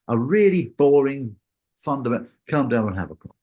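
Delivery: breezy, offhand instructor, mildly imitated; casual instructor. Instructor sending student solo, mock casual and offhand. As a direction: toss it off like it's nothing. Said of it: "they say it in the most casual manner".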